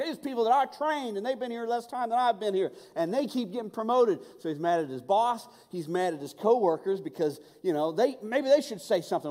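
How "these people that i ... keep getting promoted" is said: higher, whiny complaint; mock-whiny voice of an angry friend; griping coworker. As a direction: mimic a passed-over guy griping. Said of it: "He's like".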